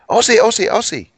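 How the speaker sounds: high rallying chant, retold; imitated crowd cheer. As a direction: imitate someone starting a stadium chant. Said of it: "someone would say".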